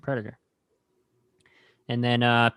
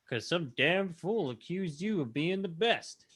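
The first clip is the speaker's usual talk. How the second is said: imitating Dylan; 5 semitones higher, 7 dB quieter, slower than usual. Retelling the movie, imitating Dylan's slow menacing line. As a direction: growl it slowly like a tough CIA man. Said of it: "we hear freaking Dylan, Carl Weathers".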